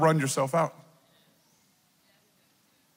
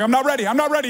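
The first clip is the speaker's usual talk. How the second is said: high, loud mock whine; whiny protest; 7 semitones higher, 3 dB louder, much faster than usual. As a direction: beg off like a kid. He argues with God.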